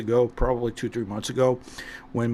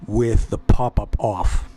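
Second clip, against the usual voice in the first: loud sharp voice; 6 dB louder than usual. Real, not acted. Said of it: "for yelling this loud".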